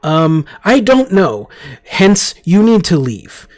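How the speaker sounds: nervous rush of broken phrases; panicking. Acted. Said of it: "I'm panicking just a little bit".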